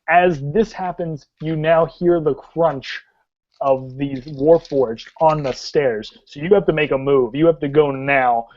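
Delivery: urgent scene setting with weighted key words; dramatic tabletop storytelling; game master narration. Acted. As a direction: warn the players that danger is closing in. Game master warns of approaching enemies.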